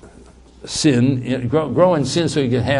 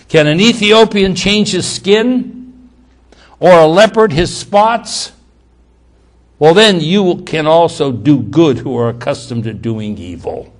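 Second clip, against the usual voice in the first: sarcastic; 5 dB louder than usual. Acted. God through Jeremiah to the Israelites, sarcastic. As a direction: put the sarcastic questions out loudly, then drop away. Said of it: "this is a very sarcastic statement".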